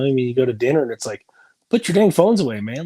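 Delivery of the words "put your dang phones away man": scolding. Retold or imitated. Scolding kids at dinner.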